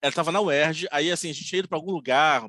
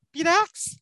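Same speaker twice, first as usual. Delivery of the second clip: high thin puzzled question; a hint of the thin little voice; 11 semitones higher than usual. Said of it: "ela fala fininho".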